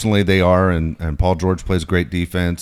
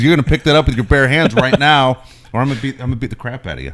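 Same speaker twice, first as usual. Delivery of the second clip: raised, higher voice, imitating an angry order; retold angry threat; 6 semitones higher, 5 dB louder, faster than usual. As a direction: act out a loud, insistent threat. Retold confrontation, order repeated forcefully.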